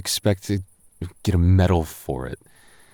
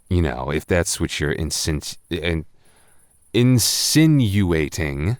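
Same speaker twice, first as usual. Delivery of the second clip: tripping over words. Acted. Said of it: "trip over my words".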